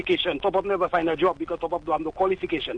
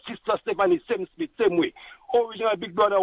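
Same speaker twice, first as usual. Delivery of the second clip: normal talking voice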